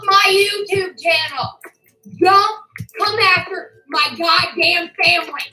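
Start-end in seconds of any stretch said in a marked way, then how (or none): 2.2-5.4 real rage, defending her family; furious warning. Real, not acted. Furious rant at online harasser.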